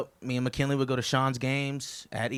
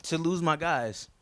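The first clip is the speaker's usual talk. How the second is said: softer, slowed, holding back emotion; a little choked up; 5 dB quieter, slower than usual. Real, not acted. Best man on losing his guys, slightly choked up. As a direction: let the feeling catch slightly. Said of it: "getting a little choked up".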